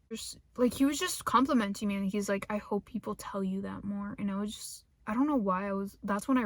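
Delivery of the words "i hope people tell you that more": quoted whisper. Retold or imitated. Quoting the coworker's compliment.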